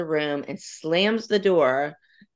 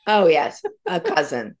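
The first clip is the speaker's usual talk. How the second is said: laughing; 4 semitones higher, 4 dB louder than usual. Real, not acted. Teasing about Eddie's many cousins.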